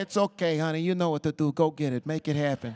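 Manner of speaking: lightly put-on New York husband; imitated New York accent. New York husband urging his wife on, imitated New York accent. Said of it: "they really sound like that?".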